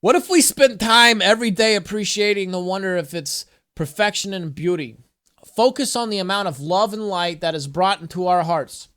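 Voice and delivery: earnest inspirational read-aloud; affirmation reading. Acted. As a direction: read it like an uplifting oracle card. Reads affirmation card aloud.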